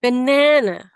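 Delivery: banana with lighter, reduced final na; reduced last na. Shown as a demonstration. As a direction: keep the last na elegant. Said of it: "Oh, gorgeous".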